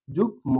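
যুগ ম in two parts, the m fully sounded; teacher sounding out যুগ ম as 'jug-mo'; correct pronunciation demo. Shown as a demonstration. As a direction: say যুগ, then a separate 'mo' for ম. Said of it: "ময়ের উচ্চারণটা আছে".

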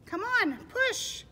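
high, loud call to push; bossy storybook pig cheering them on; urging pig. Acted. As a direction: holler encouragement, pitched right up. Pig urges the others.

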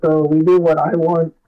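muffled, like through water; phone set down, muffled sound; underwater. Real, not acted. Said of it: "it sounds like you're underwater".

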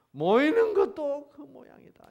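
high, loud disgusted outburst; exasperated complaint. Acted. Preacher voices God's complaint at gatherings, exasperated. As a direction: throw it out high and fed up.

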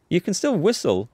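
high-pitched, smiling reassurance; gentle high lilt with a smile. A narrator's reading. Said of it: "says with a smile".

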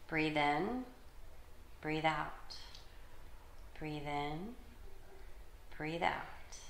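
calm, measured imagery reading with pauses; guided meditation for children. Acted. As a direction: guide them gently through breathing and imagining.

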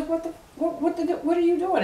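high, loud furious demand; angry high shout. Retold or imitated. Woman shouting at her cheating man, high and loud. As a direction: shriek it at him, outraged. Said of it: "She goes".

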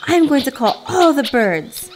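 storybook shout of fury; furious shout. A narrator's reading. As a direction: shout it up high, as an angry little bird. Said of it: "He shouted".

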